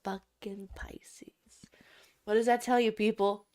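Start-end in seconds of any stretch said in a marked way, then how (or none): 0.0-1.3 hushed disgusted whisper, slow. Real, not acted. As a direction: whisper it with scorn. Repeats the star-sign jab.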